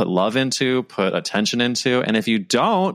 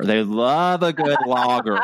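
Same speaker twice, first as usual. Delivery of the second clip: laughing; 5 semitones higher than usual. Retold or imitated. Joke about Holland.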